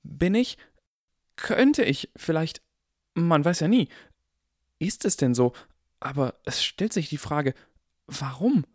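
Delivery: put-on high, theatrical boy hedging; grand performance. A narrator's reading. Harry performing for the barkeeper, hammed-up and high. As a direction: ham it up mysteriously. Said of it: "verdiente seine beste Darbietung".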